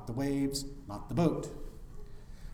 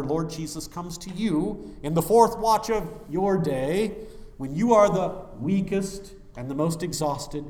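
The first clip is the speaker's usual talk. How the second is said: louder, steady pulpit proclamation; preaching at full force; 3 semitones higher, 6 dB louder than usual. Acted. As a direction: carry the congregation through the long sentence.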